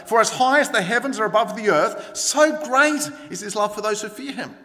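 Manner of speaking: building, fervent declaration; fervent scripture quote. A narrator's reading. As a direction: proclaim the verse with lifted energy. Verse first quoted with rising fervour.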